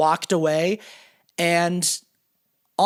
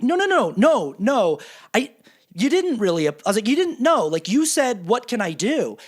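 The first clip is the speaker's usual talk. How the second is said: heated arguing; 4 semitones higher than usual. Retold or imitated. Retold heated argument.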